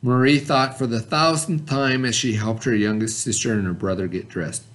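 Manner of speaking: put-on reading a children's story, gently paced; story read aloud. Teacher reading a story about Marie to the class, storybook voice.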